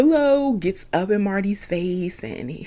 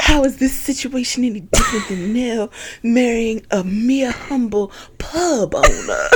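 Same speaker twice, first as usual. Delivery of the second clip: fake Marty voice; 4 semitones higher than usual. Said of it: "I gotta finish my line".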